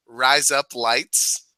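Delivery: "Rise up lights" said slowly, each word apart; spelled-out demo. Shown as a demonstration. Host setting up a word trick, slow demo of "Rise up lights". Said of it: "just normal".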